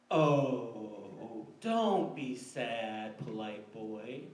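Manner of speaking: loud, slow mock sympathy with a laugh; drawn out and laughing, like a playful tease; teasing girl. Girl laughing at the boy as he leaves, mock pity. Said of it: "and she goes".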